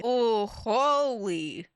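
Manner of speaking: drawn-out shocked holy, slow; slow stunned holy. Real, not acted. Reacting to the abusive texts, slow and stunned. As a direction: let it sink in, slow and stunned.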